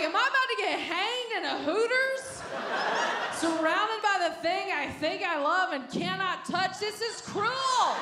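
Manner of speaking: mock panic. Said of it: "I'm like".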